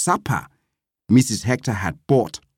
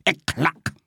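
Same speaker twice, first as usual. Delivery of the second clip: curt, dismissive interjection; 3 semitones higher, 4 dB quieter than usual. A narrator's reading. Gladys shuts up Vambe before another plea, curt. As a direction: cut him off with it. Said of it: "shut him up with a curt".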